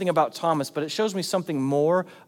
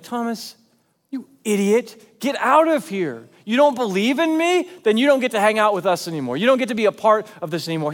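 mock-angry dismissal, louder and higher; harsh rebuke; 3 semitones higher, 4 dB louder than usual. Jesus imagined kicking Thomas out, harsh rebuke. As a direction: throw him out with a loud, harsh telling-off. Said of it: "Is he harsh?".

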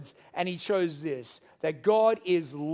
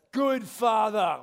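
called out; much slower than usual. Real, not acted. Congregant calling out answer.

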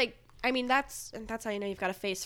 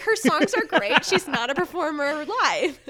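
emphatic opinion; 5 semitones higher, 8 dB louder than usual. Real, not acted.

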